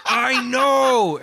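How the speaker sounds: high, exasperated shout back at the show; mock an irritated listener; impatient fan. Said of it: "impression of a fan listening".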